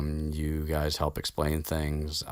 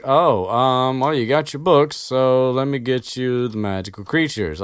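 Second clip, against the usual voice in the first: high, louder, flustered giant; flustered Hagrid; 8 semitones higher, 7 dB louder than usual. Retold or imitated. Hagrid rushing to bring out the creatures, flustered and loud. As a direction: scramble cheerfully to save the lesson.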